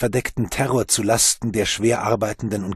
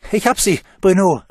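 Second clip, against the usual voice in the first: high, louder relieved call; child's call; 9 semitones higher, 7 dB louder than usual. Acted. Boy calls up to Bruno from the muck, loud. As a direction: call up that you have it. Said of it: "rief Mathieu".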